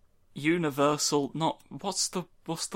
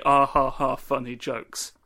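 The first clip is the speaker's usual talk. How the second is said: fake laugh. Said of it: "They don't even laugh".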